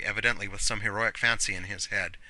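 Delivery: plain reading voice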